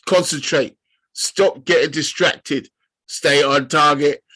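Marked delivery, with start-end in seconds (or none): 3.1-4.2 a bit louder, quoting the pilot line; calm pilot urging focus; mild imitation of the Red Leader line; Star Wars pilot. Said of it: "That's Star Wars".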